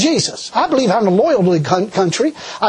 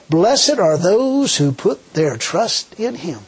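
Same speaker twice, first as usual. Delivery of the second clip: scripture reading; 3 semitones lower, much slower than usual. Acted. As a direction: savour each word of the blessing. Reads verse.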